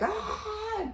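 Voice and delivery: high, softened imitation scream; small high-pitched "ah" scream; mock scream. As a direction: mimic a man screaming by the sea without full volume. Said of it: "he's by the beach screaming".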